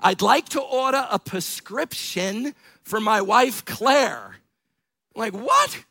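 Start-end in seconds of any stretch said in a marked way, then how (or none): 0.0-4.3 put-on grandfather's New York accent, measured and deliberate; lightly imitated New York grandfather; thick New York accent. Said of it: "in his thick New York accent". 5.3-5.8 high-pitched incredulous yelp; comic, startled high "what"; baffled. Retold or imitated. His startled reply to grandpa.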